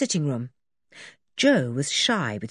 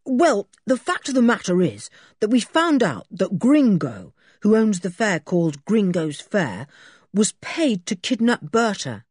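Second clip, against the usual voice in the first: put-on brisk boyish voice, a touch higher; lightly voiced Julian; 5 semitones higher, 4 dB louder than usual. Boy explaining the rescue to a policeman, lightly higher. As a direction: Julian explaining eagerly to the sergeant.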